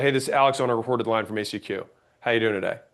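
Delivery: speedy, compact version of the call opener. Shown as a demonstration. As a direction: rattle it off fast in one breath. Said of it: "so much easier and faster to say".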